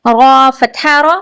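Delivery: را said full and heavy, rounded toward ro. Shown as a demonstration. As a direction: fill the mouth on را so it sounds like ro. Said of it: "اسے ہمیشہ پر پڑھیں گے".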